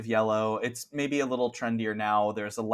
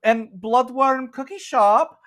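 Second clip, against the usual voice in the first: high, bright-ish Scottish shopkeeper voice pitched way up; Scottish accent; 6 dB louder than usual. Acted. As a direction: play the cheerful Scottish cookie shop owner, very high. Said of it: "She was Scottish".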